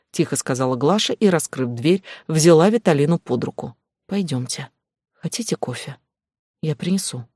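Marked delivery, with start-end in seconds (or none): 4.1-7.2 gentle offer. Acted. Glasha gently offers coffee.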